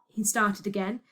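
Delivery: usual speaking voice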